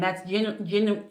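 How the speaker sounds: tripping over words with a retainer in; stumbling on the word through a retainer; talking with a retainer. Real, not acted. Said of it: "I can't say it, this retainer".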